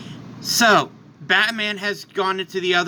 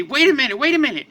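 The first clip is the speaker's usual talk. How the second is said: excited; 6 semitones higher, much faster than usual. Acted. Yardrats interrupt excitedly.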